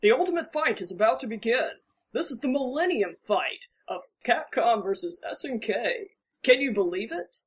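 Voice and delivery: hyped fighting game announcer. Retold or imitated. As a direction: sell the battle like an arcade hype man. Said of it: "That guy they have at Capcom who just patters on".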